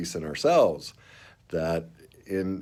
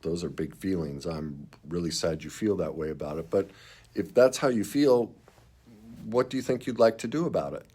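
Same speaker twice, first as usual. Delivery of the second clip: empathetic. Shown as a demonstration. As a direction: show them you feel it, then hand it back. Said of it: "first, empathize".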